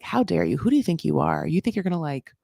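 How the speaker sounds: Jasmine. Acted. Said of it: "this is really Jasmine being like".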